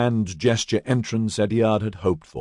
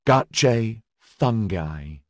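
pleading; much slower than usual. Acted. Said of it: "he pleaded".

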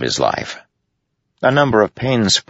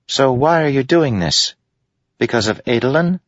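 high, light curious spren; 10 semitones higher than usual. A narrator's reading. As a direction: ask it like a small curious spirit. Syl voiced, high.

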